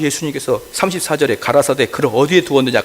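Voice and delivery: normal talking voice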